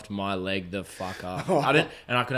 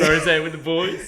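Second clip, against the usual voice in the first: put-on high and louder, savouring rosé with the boys like a toast; mock posh repeat; 7 semitones higher, 8 dB louder than usual. Teasing his mate about wine, a hammed-up high toast. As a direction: ham up the phrase Rosé with the boys, pitched up and loud. Mocking the phrase back to mate.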